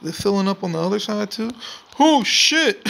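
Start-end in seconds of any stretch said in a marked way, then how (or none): 2.0-2.9 high yelp into a laugh; yelp, then burst out laughing; startled laugh. Real, not acted.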